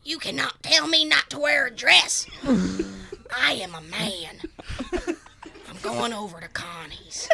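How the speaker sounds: lightly voiced cartoon boy; a hint of a whiny cartoon kid; Bobby Hill. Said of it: "do, do Bobby".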